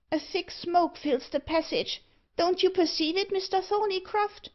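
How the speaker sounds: high-pitched little dwarf voice; alarmed dwarf. Acted. Dwarf asks Thorneycroft about the smoke, in a high voice. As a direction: pipe up high, querying your companion.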